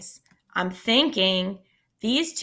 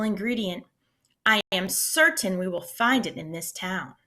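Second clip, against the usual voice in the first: lively read-aloud storytelling voice; expressive picture-book reading; story narration. A narrator's reading. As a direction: read it to a class of kids.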